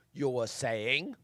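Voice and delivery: low, slow questioning drawl with rising end; movie quote. Acted. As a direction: draw it out softly, lifting at the end. Quoting a film catchphrase.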